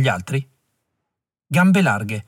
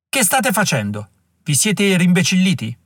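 higher, shouted demands; angry shout; 6 semitones higher than usual. Acted. Klug berates his men for lowering their weapons, angry shout. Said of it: "gridò Klug".

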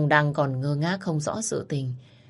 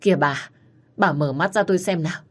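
desperate plea. Acted. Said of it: "Ông Đăng lúc này gào thét".

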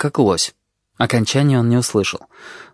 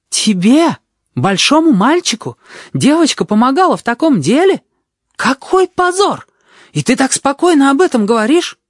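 scandalised nurse; 4 dB louder than usual. A narrator's reading. Nurse horrified at the boy, very high outraged voice. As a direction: gasp it out in outrage.

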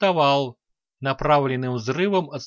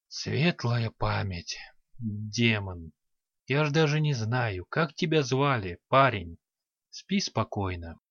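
hoarse whisper; 4 semitones lower, 5 dB quieter than usual. A narrator's reading. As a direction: breathe it out hoarsely, barely there. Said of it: "хрипло прошептал".

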